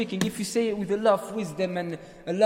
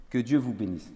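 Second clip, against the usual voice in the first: gentle French blessing, pitched low; low, kindly voice; soft, with smile; 5 semitones lower than usual. Shown as a demonstration. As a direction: offer the blessing softly, with a smile. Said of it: "with a soft voice, they accepted it".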